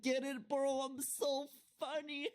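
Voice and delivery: laughing. Real, not acted. Joking after pun.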